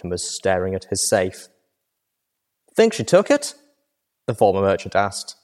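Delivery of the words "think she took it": guard voice. A narrator's reading.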